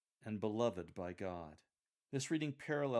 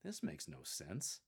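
slow, mildly puzzled musing; touch of puzzlement; 3 semitones lower, 4 dB quieter, slower than usual. Shown as a demonstration. Coach voices the reader's thought, mildly puzzled. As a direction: say it slowly, as if puzzled. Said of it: "a touch of puzzlement, like".

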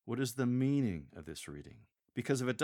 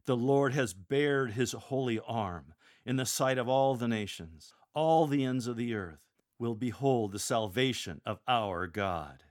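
louder, commanding; power and authority; 5 dB louder than usual. Shown as a demonstration. Lector proclaiming God's might, loud and commanding. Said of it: "return to a tone of power and authority".

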